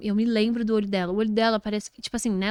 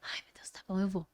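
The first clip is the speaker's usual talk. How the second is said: sussurro; 3 semitones lower, 10 dB quieter than usual. Retold or imitated. Retells own reluctant reply.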